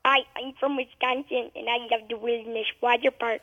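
put-on a kid's soft Wisconsin accent. Shown as a demonstration. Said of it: "say it back to me in a Wisconsin accent".

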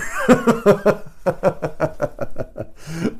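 real laughter; laughing. Real, not acted. Speaker laughing at his own punchline, real laughter.

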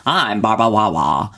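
lightly voiced, mild lisping impression; Barbara Wawa impression. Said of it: "really exaggerating the way that Barbara Walters speaks".

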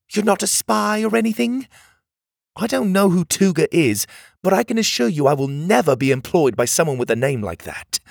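put-on high, brisk little mechanical girl; a small bossy girl urging them on; bossy cog girl. A narrator's reading. Cog girl warning strangers about Tuga, high and urgent.

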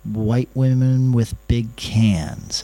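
hesitant question with a long pause before the risky part; retold wincing confession, slowing at the end. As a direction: test it gingerly, bracing for the reaction. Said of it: "and I, and I winced".

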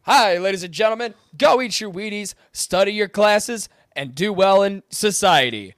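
lightly booming, slow hero announcer; big superhero voice. Retold or imitated. Showing the superhero's intended sound, lightly heroic announcer voice. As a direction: play a wholesome hero addressing the public. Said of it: "That's how a superhero should sound".

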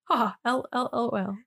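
spoken ha ha instead of laughing; stifled giggles. Pretend. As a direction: say the laugh as words. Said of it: "saying ha in place of the laughter".

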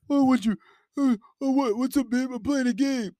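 high, flustered answer; mock distracted boyfriend. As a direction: answer distractedly mid-game. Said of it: "boyfriend answers the phone".

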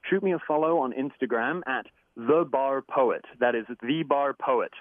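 English speaker doing an American accent. Shown as a demonstration. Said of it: "Excuse the American accent while I do that".

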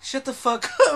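retelling the tweaker, laughing; laughing quote. Retold or imitated. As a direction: crack up while quoting her. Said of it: "she's like".

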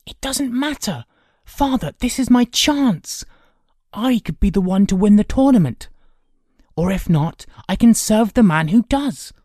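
put-on high, loud boyish insistence; eager pleading. A narrator's reading. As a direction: plead your case with mounting force. Kay pleads to go to tournament.

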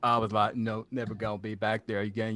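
a modest attempt at a Southern simpleton voice; hint of an Alabama accent; Forrest Gump. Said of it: "the Forrest Gump accent from Alabama".

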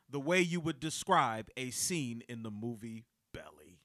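hushed unvoiced whisper. Real, not acted. Host whispering the punchline to co-hosts, hushed. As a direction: drop to a secret whisper.

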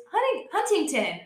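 Huntington with every T sounded, high-pitched quote; imitated T pronunciation. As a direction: mimic an outsider's careful HUN-TING-TON. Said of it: "goddamn T in that fucking word".

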